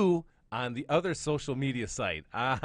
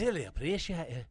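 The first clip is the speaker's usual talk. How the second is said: lightly parroted Scottish lilt; imitation Scottish accent; 3 semitones higher than usual. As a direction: echo a bad Scottish brogue.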